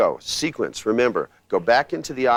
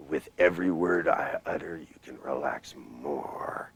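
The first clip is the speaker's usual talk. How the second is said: hypnotic whisper; 5 semitones lower, 6 dB quieter than usual. Shown as a demonstration. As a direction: lull them down into relaxation. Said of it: "where the words match the sound".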